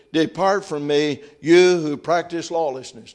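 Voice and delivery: firm, declaimed Bible reading; scripture reading. Acted. Preacher reads Jesus's warning to the congregation, firm declaimed reading. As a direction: read the verses out steadily and strongly.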